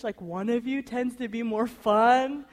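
ordinary talk, nothing marked

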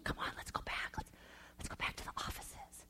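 hushed urgent whisper. Retold or imitated. Wife hushing her husband at a stranger's wedding, whispering. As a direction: whisper so the wedding guests can't hear.

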